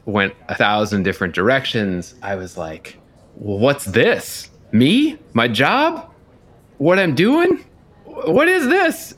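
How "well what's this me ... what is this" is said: retold panic. Panicked thoughts about getting fired.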